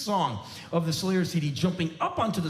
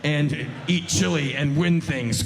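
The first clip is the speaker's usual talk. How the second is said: mission voice. Pretend. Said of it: "like being on a mission".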